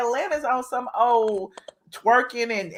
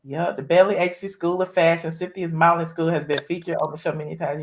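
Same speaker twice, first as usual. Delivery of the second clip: lower, measured read-out voice; reading an article aloud; 5 semitones lower than usual. Real, not acted. Host reads a fraud story to caller, read-aloud style. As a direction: read the news story out to listeners.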